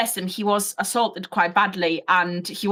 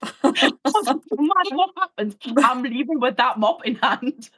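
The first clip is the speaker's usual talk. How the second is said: laughing; 3 semitones higher than usual. Real, not acted. Officer telling how they went for the mop, laughing. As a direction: giggle through a mock-heroic resolve.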